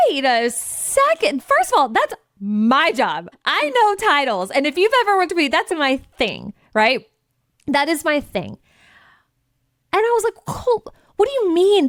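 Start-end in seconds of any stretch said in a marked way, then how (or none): 0.1-8.6 indignant. Retold or imitated. Indignant about titles being her job. 10.4-11.9 much higher, baffled question; can't believe what you heard; incredulous. Retold or imitated. Incredulous at critique of name.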